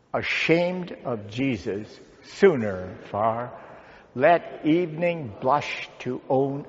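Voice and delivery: slow, measured group verse reading; hymn recitation. Acted. Pastor concludes with congregation saying a hymn stanza, hymn recitation. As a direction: say it slowly, phrase by phrase, for all to join.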